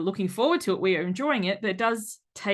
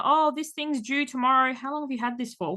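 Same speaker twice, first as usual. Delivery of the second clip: exasperated parent; 6 semitones higher than usual. Retold or imitated. Parent reacting to late notice.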